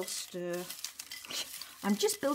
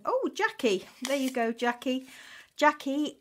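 hyped giveaway announcement; 6 semitones higher, 3 dB louder than usual. Real, not acted. Drawing giveaway winner live.

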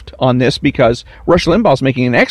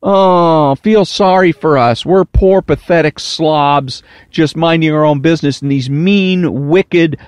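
whiny. Retold or imitated. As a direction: whine it like a poor victim. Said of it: "make it sound like, uh, a whiny".

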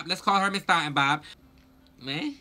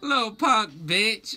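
crying; 4 semitones higher, slower than usual. Real, not acted. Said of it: "I started crying".

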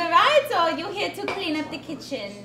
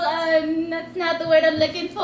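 put-on Asian accent; 4 semitones higher than usual. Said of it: "I'm losing my Asian accent".

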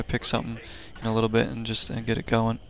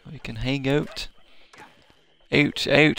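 Canadian "Out, out" said as a clipped "oot, oot"; a passing mock Canadian accent on "Out, out"; 2 semitones higher than usual. Streamer misfires on Irish and lands on a mock Canadian accent. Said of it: "That's more of a Canadian accent, isn't it?".

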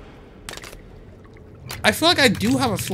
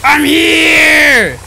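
loud shout to be found; calling out; 4 semitones higher, 8 dB louder than usual. Real, not acted. Player signalling his squad, loud shout. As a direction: yell across the map. Calling teammates to find him.

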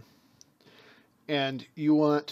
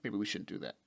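feminine side conceding; 5 semitones lower than usual. Pretend. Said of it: "And the sacred feminine go".

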